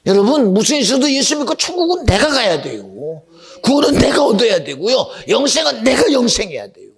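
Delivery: loud, high urgent preaching; preaching at full force. Acted. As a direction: drive the point home to the congregation.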